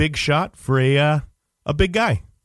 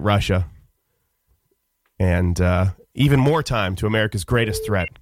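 mock gravity; 4 semitones lower than usual. Mock-grave news of betrayal.

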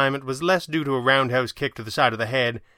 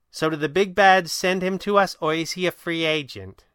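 higher-voiced, inquisitive heroine; Kit, inquisitive; 7 semitones higher, 5 dB louder than usual. A narrator's reading. Kit asks the Red Panda who sent the man, inquisitive. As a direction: question him in a high, lively voice.

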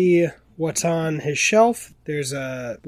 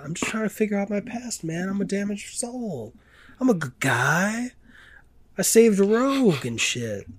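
unplaceable put-on accent, pitched higher, tough-guy swagger; mock Wolverine accent; 6 semitones higher than usual. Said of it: "no fucking idea what that accent was".

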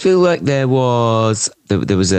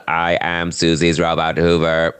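lightly voiced camp robot hoover; a hint of a camp robot; 4 semitones lower than usual. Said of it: "even when I'm a robot voice, I do it camp".

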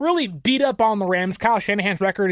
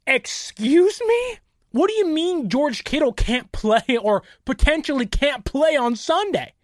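all-caps outrage; 3 semitones higher than usual. Retold or imitated. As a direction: stretch out the outraged disbelief. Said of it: "a very all caps".

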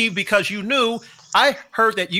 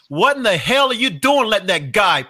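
loud and higher, a hammed-up bench rant; mock yelling teammates; 6 semitones higher, 4 dB louder than usual. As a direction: rile him up like an angry teammate. Braves yelling at Eddie on bench.

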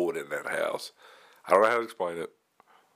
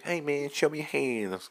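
tense gunpoint commands; cop voice; 9 semitones higher than usual. Retold or imitated. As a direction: bark it like a cop at a door. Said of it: "Is that your cop voice?".

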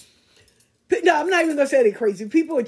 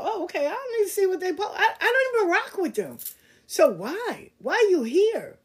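high, fast giggling dismissal; amused brush-off; laughing; 8 semitones higher than usual. Real, not acted. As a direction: laugh it off quickly.

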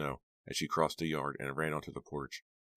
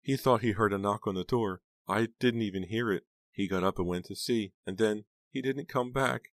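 high, plaintive recounting; sobbing aunt; 6 semitones higher, 4 dB louder than usual. A narrator's reading. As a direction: let grief push the pitch up, slowing at the end. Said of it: "still sobbing".

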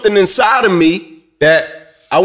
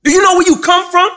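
rallying message; 11 semitones higher than usual. Retold or imitated. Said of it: "And my message to them was".

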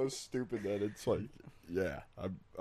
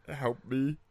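parrot voice; 5 semitones higher than usual. Retold or imitated. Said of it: "the parrot was trained to say".

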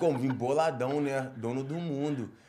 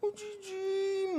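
high, slow, hushed "O Didi"; sheepish confession; 8 dB quieter, much slower than usual. Retold or imitated. Son finally confessing to mother, high and meek. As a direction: admit it meekly, stretching the name.

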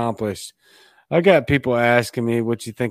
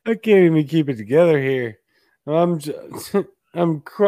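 crying laughing; 3 semitones higher than usual. Real, not acted. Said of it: "I'm just crying".

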